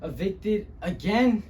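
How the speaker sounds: subdued dramatic storyteller; weighted pauses, building on the last word; Luis Rodriguez. Acted. Luis recalling eviction and isolation, subdued then bitter. Monologue continues, more subdued.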